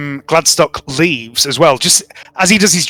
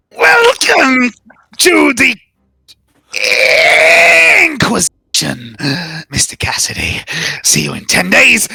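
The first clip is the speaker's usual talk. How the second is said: theatrical welcome; 7 semitones higher than usual. Acted. Boss shakes the new recruit's hand, theatrical overblown welcome. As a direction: announce it like a showman, then sign off. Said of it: "He shakes your hand and says".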